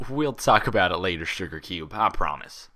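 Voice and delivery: amused, indulgent Southern reply; chuckling promise; laughing. Acted. Applejack laughing off Pinkie's party plea, amused. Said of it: "laughed Applejack".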